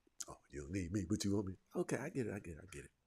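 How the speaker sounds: very hushed, soft, low, under-the-breath. Retelling what a man said to the woman he is with, in a very soft voice. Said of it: "in a very soft voice".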